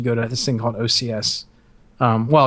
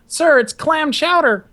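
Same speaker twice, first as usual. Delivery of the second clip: high, slow, formal recruit reply; scrawny young cadet; 12 semitones higher, slower than usual. Retold or imitated. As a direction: imitate a kid reporting up to his superior. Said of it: "And the kid's like".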